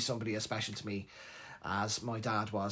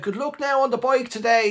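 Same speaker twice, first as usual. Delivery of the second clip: loud, high sneering send-off; mocking dad; 10 semitones higher, 10 dB louder than usual. Dad teasing his son off on the push bike, loud and mocking. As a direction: rub it in like a gloating father.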